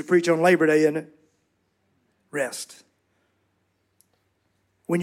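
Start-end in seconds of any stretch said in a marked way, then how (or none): 2.3-2.8 low hushed "Rest."; quiet calming word; soft and low. Shown as a demonstration. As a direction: let "Rest." fall softly. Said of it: "say rest soothingly".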